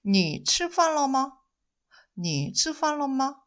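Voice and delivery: each syllable drawn out slowly; slow Mandarin model for learners; very slow demo. Shown as a demonstration. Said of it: "잘 들어보세요". (아주 천천히 또박또박)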